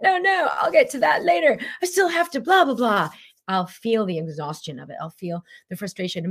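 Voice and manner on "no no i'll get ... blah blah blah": much higher, breezy put-off voice; dismissive brush-off. Acted. Brushing off life's invitation, breezy high dismissive voice. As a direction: wave it away, breezy and busy. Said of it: "And I'm like".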